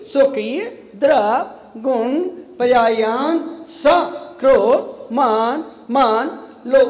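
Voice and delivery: slow, deliberate scriptural recitation; Sanskrit recitation. Acted. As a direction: recite word by word with pauses.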